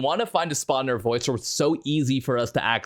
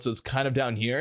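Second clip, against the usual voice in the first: back-of-throat voice; 4 semitones lower, 3 dB quieter than usual. Shown as a demonstration. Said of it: "from the back of your throat".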